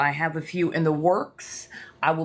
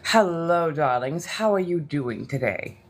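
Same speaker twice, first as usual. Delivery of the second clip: Inna Bathory voice. Pretend. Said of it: "I have on the Inna Bathory voice".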